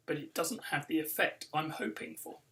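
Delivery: lively read-aloud storytelling; story narration. A narrator's reading. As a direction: read it like a children's book for a crowd. Author reads book aloud.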